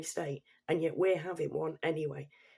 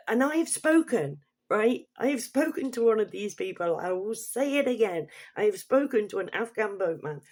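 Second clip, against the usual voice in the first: "I have spoken" pushed higher and louder; emphatic insistence; 4 semitones higher, 4 dB louder than usual. Real, not acted. Vlogger insisting they have spoken to one, emphatic. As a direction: hit "spoken" hard, raised and insistent.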